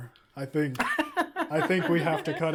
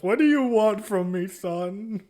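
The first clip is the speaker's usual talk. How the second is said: angry; 6 semitones higher, 6 dB louder than usual. Acted. Dead king snaps at son.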